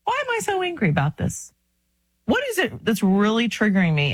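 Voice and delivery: high-pitched wondering at oneself; a mock-exasperated self-question, pitched high. Asking yourself about your anger, high-pitched self-questioning. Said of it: "If you can ask yourself".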